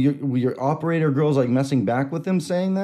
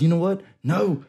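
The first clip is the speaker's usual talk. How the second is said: defiant caller; 6 semitones higher than usual. Retold or imitated. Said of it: "then he goes".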